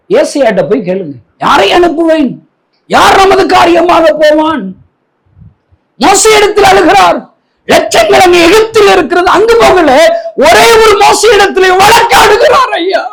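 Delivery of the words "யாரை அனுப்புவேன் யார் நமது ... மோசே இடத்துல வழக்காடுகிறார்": impassioned preaching. Acted. Preacher telling congregation of God's call to Moses, impassioned. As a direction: preach it high and pleading, stretching the phrases.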